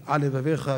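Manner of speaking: על set apart from לבביך; words kept apart. Shown as a demonstration. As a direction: separate על from לבביך so the L is not swallowed. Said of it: "להבדיל". (להבדיל בין על ל-לבביך)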